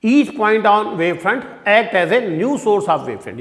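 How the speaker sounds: very slow, word by word dictation. Shown as a demonstration. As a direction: read it out slowly so students can write. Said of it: "English में लिखा हुआ है".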